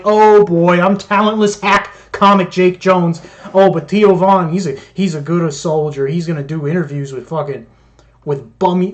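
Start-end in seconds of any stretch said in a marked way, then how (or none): 0.0-3.2 mock self-pity. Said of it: "I'm just waiting here like".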